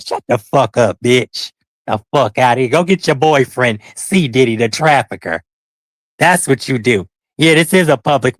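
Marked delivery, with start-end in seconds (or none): none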